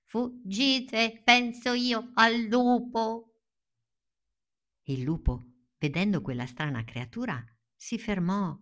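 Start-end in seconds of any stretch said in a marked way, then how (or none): 0.1-3.4 shout. Acted. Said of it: "Rivolgendosi ai suoi amici urlò".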